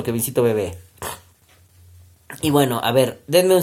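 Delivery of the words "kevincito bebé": monster voice. Shown as a demonstration. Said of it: "Con voz de monstruo".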